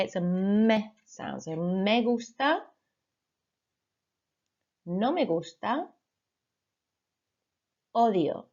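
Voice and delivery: "me" said as "meh", open vowel, not "mee". Shown as a demonstration. Teacher correcting students' "me" sound, open and careful. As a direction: stress the open "me" in "me gusta". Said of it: "I don't want to hear any me's".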